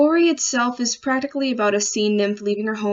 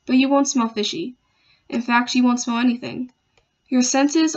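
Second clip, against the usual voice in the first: measured verse reading with pauses between phrases; poem recitation. Acted. Student reading their poem about fear of black holes, measured recitation. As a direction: recite it deliberately, letting each line settle.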